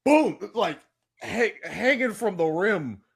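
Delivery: high, loud, slow-punched excitement; hyped slam dunk. Retold or imitated. Fan cheering the casting like a dunk, high and loud. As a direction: call it like a dunk highlight. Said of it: "I was like".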